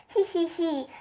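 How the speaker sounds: gently voiced giggling elephant; spoken giggle. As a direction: lightly read hee hee ha ha. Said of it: "He began to giggle".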